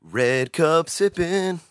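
high, slow teasing announcer voice; mock announcer. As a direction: narrate the sip like a broadcaster. Teasing while he drinks.

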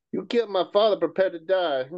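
put-on lightly done Spanish accent; dramatic line in a Spanish accent. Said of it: "I am not the Hispanic guy in Ant-Man".

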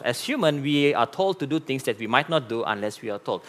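soft second pass to let it sink in; quiet repeat. Shown as a demonstration. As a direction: say it again, hushed and deliberate. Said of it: "Let me repeat myself".

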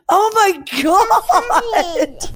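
drawn-out, laughing oh my god; laughing quote. Retold or imitated. Quoting herself mid-burp, laughing slowly. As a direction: stretch it slowly through laughter. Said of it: "I'm like".

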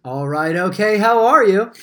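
a laid-back drawled catchphrase, lightly voiced; Wooderson catchphrase. Friend asks for his famous line, light mock delivery. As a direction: toss off the famous line with a loose, easy mock swagger. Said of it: "famous line that you like to use".

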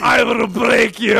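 slow shouted Drago threat; barbarian. Retold or imitated. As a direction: growl it like a Russian boxer. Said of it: "We got Drago sound at all?".

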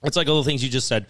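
talking around a mouthful of candy; candy in the mouth while talking; mouth full. Real, not acted. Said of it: "as soon as I put candy in my mouth".

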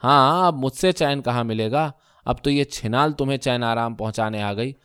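a stung wife snapping back; a touch of shrillness; sharp retort. Acted. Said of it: "تیز آواز میں بولی".

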